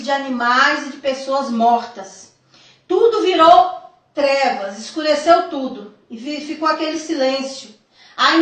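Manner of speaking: deliberate, emphatic reading aloud; solemn testimony reading. A narrator's reading. Telling the church of a vision from Jesus, solemn reading. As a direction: read it out as a weighty revelation.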